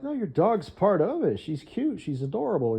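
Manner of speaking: high cooing fan voice; gushing fans. Retold or imitated. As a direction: coo it like a doting fan. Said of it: "other people were like".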